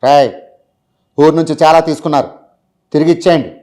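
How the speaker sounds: calm hero dialogue from Srimanthudu; lightly voiced film hero; Mahesh Babu impression. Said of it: "రీసెంట్గా వచ్చిన movies".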